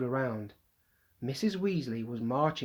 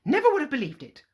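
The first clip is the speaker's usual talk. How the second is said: indignant; 11 semitones higher, 7 dB louder, faster than usual. Acted. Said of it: "she muttered things like".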